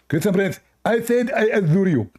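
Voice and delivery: high mocking caller voice, "I adore you" rising; mock Abdul voice. Mocking the caller Abdul, high put-on voice. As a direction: lampoon the caller, pitched high. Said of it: "Abdul, it cannot say adore".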